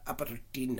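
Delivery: lightly put-on Scottish accent; slow, playful Scottish lilt. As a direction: say it with a hint of Scots. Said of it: "say it in a Scottish accent".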